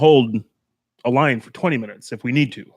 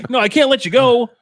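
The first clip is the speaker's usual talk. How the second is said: high, louder protest; mock exasperated refusal; 8 semitones higher, 5 dB louder than usual. Traffic worker refusing impatient driver, mock exasperation. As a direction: refuse in a raised, put-upon voice.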